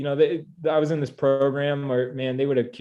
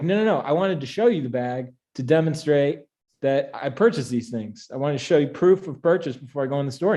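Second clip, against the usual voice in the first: flustered protest; 2 semitones higher, 3 dB louder than usual. Retold or imitated. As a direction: scramble to explain yourself. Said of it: "And I was like".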